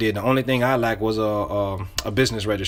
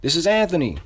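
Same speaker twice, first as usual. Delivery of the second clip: familiar caller; 5 semitones higher than usual. Shown as a demonstration. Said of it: "you say your name".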